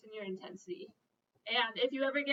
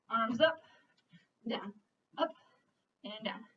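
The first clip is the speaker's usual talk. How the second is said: aerobics instructor. Real, not acted. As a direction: call it out over the music. Instructor calling a move.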